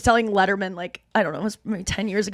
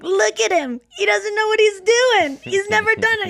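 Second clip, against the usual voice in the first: surfer dad; 12 semitones higher, 3 dB louder than usual. Retold or imitated. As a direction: coo at the baby like a stoner. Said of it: "my dad's like".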